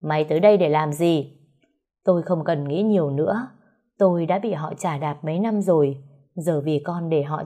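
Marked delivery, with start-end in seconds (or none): 0.0-1.3 snapping. Acted. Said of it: "nhìn về phía tôi quát".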